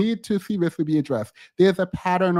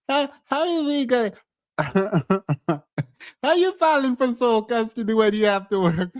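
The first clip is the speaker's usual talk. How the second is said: laughing while talking; 3 semitones higher than usual. Real, not acted. Laughing at the contradiction.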